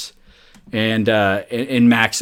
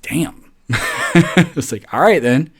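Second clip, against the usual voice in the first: laughing; 5 semitones higher, much slower than usual. Real, not acted. Laughing at being told off.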